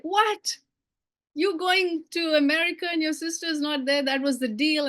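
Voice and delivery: high-pitched mock disbelief; retold motherly shock. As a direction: imitate a mother's startled "What?", easing down into protest. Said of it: "my mom is like".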